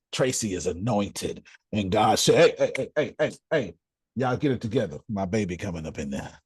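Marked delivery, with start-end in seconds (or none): 2.3-6.4 God scolding. Retold or imitated. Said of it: "they don't like when I talk like that".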